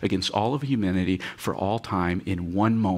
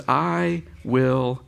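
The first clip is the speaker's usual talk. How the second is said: sighed words; much slower than usual. Shown as a demonstration. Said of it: "He's sighing".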